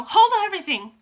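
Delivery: high, loud witch shriek. Acted. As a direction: stop everyone with a shriek. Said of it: "Her shrieking voice echoed".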